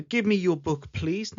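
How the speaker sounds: softened, polite ask with please; politely asking for the book; polite request. Shown as a demonstration. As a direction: ask nicely, ending on a gentle please. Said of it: "Notice how please makes it sound more polite".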